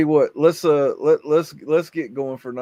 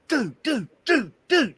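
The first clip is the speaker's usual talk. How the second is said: much higher, dopey drawn-out "dude" calls; mock glue-high friend; 10 semitones higher, slower than usual. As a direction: play the stoned buddy stuck to his nose. Friend stuck, glue-high, calling out.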